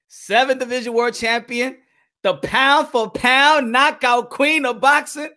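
big ring announcer hype; announcer intro. Acted. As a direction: announce her like a champion. Announcer-style repeated intro.

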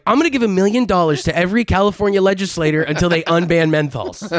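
high-pitched stunt announcer impression; Mister Beast. Imitating a YouTuber pledging money to legislators, hammed-up announcement. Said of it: "Mister Beast is like".

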